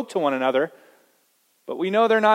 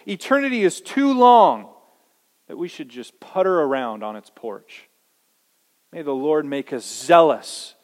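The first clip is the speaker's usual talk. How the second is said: prayer. Acted. Preacher leading the congregation in prayer, earnest. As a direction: pray it over the church. Reads Piper's prayer aloud.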